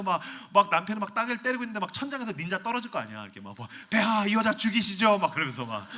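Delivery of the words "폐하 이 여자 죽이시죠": loud grim guard. Acted. Ninja urging king.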